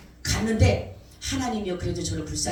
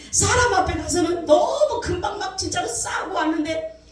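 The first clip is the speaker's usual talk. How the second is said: loud, higher appeal to the crowd; preaching shout; 9 semitones higher, 4 dB louder than usual. Real, not acted. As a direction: fire the question at the congregation. Preacher challenging the congregation.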